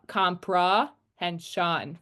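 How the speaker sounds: comprehension said slowly, unstressed syllables as uh; slow schwa demo. Shown as a demonstration. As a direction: draw out comprehension, reduced vowels clear. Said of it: "You hear".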